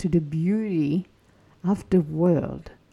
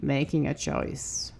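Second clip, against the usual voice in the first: softer, slower retake of the title; 5 semitones lower, 5 dB quieter than usual. Shown as a demonstration. Host repeating the topic title, soft and slow. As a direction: say it quietly and slowly. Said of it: "Let's talk about this".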